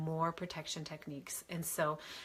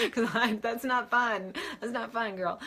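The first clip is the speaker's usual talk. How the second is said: sympathetic; 5 semitones higher, 6 dB louder than usual. Real, not acted. Sympathising with Brenda's struggle.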